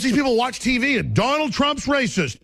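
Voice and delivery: normal talking voice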